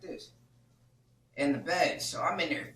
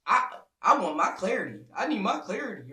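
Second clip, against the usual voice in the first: mock simp pleading, slightly raised; 2 semitones higher, 6 dB louder than usual. Rival demanding a talk with her, mock simp. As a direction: imitate a needy simp insisting. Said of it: "some simp ass shit".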